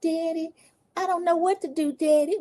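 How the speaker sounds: mocking baby talk, high babyish voice. Retelling a reality show scene, imitating a baby voice. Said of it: "We getting the baby voice".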